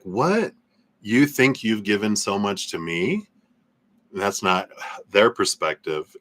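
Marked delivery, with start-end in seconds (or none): 0.0-3.3 mock disbelief. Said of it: "they're like".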